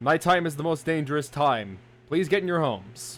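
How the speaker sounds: booming PA announcer voice. Voicing a nighttime warning to everyone, in a loud booming loudspeaker voice. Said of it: "a voice almost as if from a speaker of sorts, very loudly boom".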